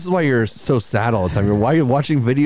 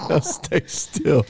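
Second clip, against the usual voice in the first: creepy high voice; 6 semitones higher, much slower than usual. Pretend. Mock abuser voice to dog.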